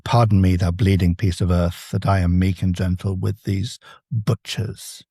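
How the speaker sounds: Antony's line, lightly voiced and slowed; a hint of the grieving Antony; lightly acted Antony. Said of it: "Antony says".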